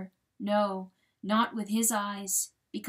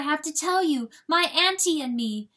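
put-on high, loud young fawn; fawn's voice; 7 semitones higher, 7 dB louder than usual. A narrator's reading. Fawn speaking to her father, high and loud.

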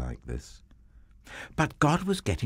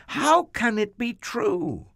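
much higher, breathless with wonder; amazed Abraham; 14 semitones higher than usual. Acted. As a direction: gasp it out like he can't believe it. Abraham amazed at God's promise.

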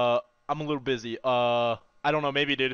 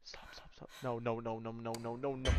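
whispering; 6 semitones lower, 11 dB quieter than usual. Real, not acted. Whispering while hiding.

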